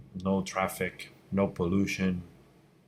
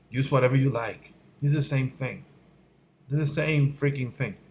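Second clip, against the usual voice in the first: higher-pitched, mildly exasperated reassurance; exasperated insistence; 4 semitones higher than usual. Real, not acted. Teacher telling students to stop fussing over tools, exasperated. Exasperated with constant tool questions.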